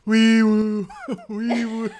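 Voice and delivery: high squeaky siren noise; siren wee woo. Pretend. Imitating Patrick siren noise.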